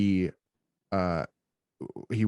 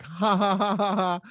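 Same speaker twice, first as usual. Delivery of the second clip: high, louder imitated baby laugh; baby giggling; 12 semitones higher, 5 dB louder than usual. Dad imitating his smiling baby son, high giggle. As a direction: mimic a gleeful baby's giggle. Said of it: "he has this giant smile on his face".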